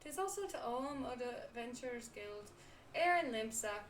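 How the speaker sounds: put-on pirate brogue, dropping letters; hammed-up pirate accent; bad pirate accent. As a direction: play a pirate innkeeper with an amateur accent. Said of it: "the accent isn't written consistent".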